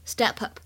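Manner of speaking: "step up" run together as "ste-pup"; linked words. Shown as a demonstration. Teacher shows learners linking, "step up" said as one word. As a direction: carry the P of "step" onto "up". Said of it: "有一个连读的现象".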